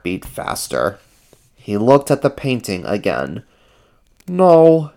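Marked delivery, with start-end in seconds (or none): 4.3-4.9 higher, louder refusal; lightly voiced, resolute character; Ernie's voice. A narrator's reading. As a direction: refuse it firmly, pitched up. Ernie resists lying.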